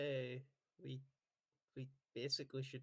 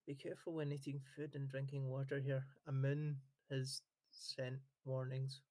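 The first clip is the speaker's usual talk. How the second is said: quiet warning; 5 dB quieter than usual. Acted. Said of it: "take her to the side".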